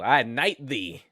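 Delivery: slow British knighting proclamation; lightly hammed-up British monarch; mock British royal accent. Joking British royal knighting someone.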